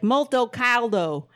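put-on slow, drawn-out Italian in a Southern accent; Italian stretched with a Southern drawl. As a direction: imitate a Southerner speaking Italian. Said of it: "Italian friend ... from the South".

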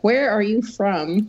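country twang. Retold or imitated. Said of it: "a little bit of twang in these voices".

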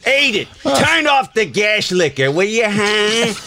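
a gruff, grumbling sitcom dad barking at his wife; lightly voiced blustering Archie; grouchy husband yelling across the living room; Archie Bunker. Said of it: "bring out Archie Bunker".

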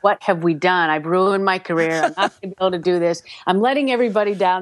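rushed retold panic, mildly played; mock panic. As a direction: spiral into worry, speeding up. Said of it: "I'm in a complete panic".

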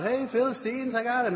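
high-pitched mock call; retold yell. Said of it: "she yells out".

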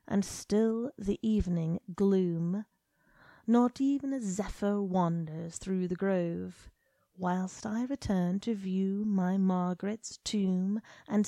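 slow, hushed poem recital; a hushed, measured reading of a mournful poem. A narrator's reading. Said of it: "began to read the first poem".

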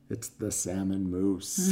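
slow, drawn-out pronouncement; lightly voiced Grim Reaper, slowly; Death figure. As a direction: stretch it out as Death's solemn verdict. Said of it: "and he's like".

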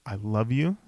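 low, earnest brotherly vow in imitation; lightly voiced movie madman pledging loyalty, pitched low; Looney Bin Jim. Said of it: "And Looney Bin Jim's like".

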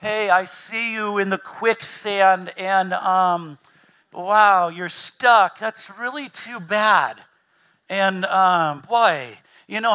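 sarcastic, drawn-out put-down; a hint of fake sympathy with a sneer; mock smug judgment. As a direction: play the smug onlooker sneering at someone stuck. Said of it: "it's not in that moment that you're going".

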